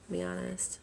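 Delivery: hoarse, fading voice after crying; losing her voice. Real, not acted. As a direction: voice giving out, soft and worn. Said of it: "I'm starting to lose my voice a little bit".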